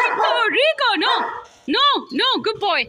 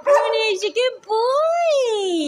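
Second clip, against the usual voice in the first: squeaky praising a dog; 4 semitones higher than usual. Real, not acted. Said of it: "squeaky praising a dog".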